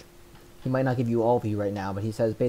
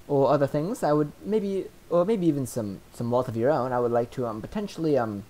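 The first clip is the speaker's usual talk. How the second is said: booming dragon voice; 3 semitones higher than usual. Acted. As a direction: boom it out like a young sapphire dragon. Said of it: "in this booming voice".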